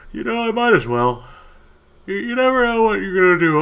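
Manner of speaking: loud, high, fast excitement; excited. Real, not acted. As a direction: hype it up quickly. Opening loot, hyped.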